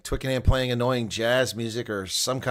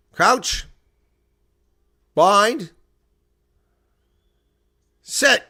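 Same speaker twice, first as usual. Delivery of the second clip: shouted mock referee calls, much higher; referee's scrum call; 7 semitones higher, 7 dB louder, much slower than usual. Streamer loudly mimicking referee's crouch, bind, set.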